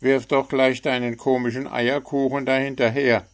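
a chirpy bird poking fun; cheeky little bird. A narrator's reading. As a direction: frecher kleiner Vogel. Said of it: "empfahl der Vogel".

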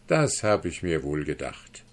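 low, quiet, smug put-down with the stress on "das"; quiet scorn. Acted. Guest to the duke, quietly scornful. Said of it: "lächelte dabei höhnisch".

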